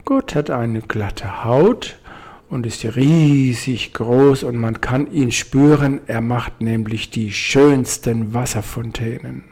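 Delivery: slow, roomy whale voice; a big unhurried whale; slowed whale voice, a different timbre; lightly voiced whale. Whale answers the bird.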